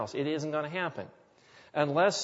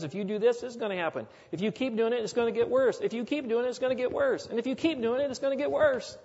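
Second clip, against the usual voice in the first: building warning; 8 semitones higher, faster than usual. Retold or imitated. Quoting God's warning, building.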